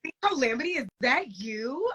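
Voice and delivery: mock a shopper's thrilled recognition; excited fan. Shopper recognizing her from Big Brother, mock excitement. Host imitates fan at grocery store.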